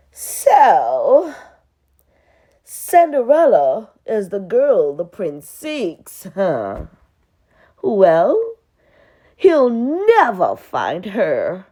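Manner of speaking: a lightly voiced cruel stepmother; scheming stepmother.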